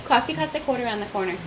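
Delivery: laughing New York accent demo; coffee and quarter the New York way. Shown as a demonstration. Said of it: "can tell if someone's from New York".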